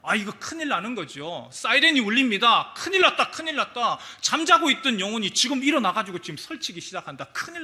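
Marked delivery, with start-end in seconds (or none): 2.8-4.0 alarmed panic. Acted. Satan alarmed, sirens wailing.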